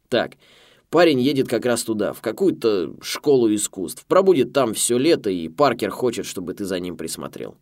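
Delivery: loud, brash American boss. A narrator's reading. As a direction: bark down the phone line. Boss on the phone.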